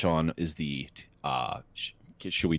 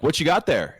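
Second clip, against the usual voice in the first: quoting meme; 8 semitones higher, 5 dB louder than usual. Retold or imitated. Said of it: "there's this meme".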